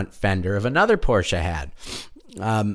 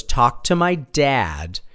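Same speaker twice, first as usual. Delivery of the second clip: stonewalling; much slower than usual. Retold or imitated. Kid stonewalling him.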